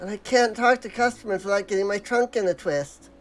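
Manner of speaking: timid, hesitant villager asking politely; Matsuya's voice. Acted. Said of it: "Trying to actually do Matsuya's voice".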